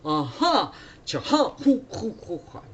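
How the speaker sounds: high, punchy kung-fu shouts; martial-arts cries. Acted. Monk scaring off cave demons, mock kung-fu cries. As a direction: act out a monk's fighting yells. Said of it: "the style of fighting".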